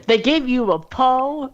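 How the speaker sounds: mock-puzzled high echo of his words; imitating him. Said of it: "you, you're saying".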